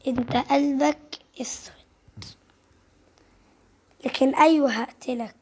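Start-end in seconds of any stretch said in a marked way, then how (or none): 0.1-1.7 hushed whispered aside. Real, not acted. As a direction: breathe it out under your breath. Hushed remark on game character.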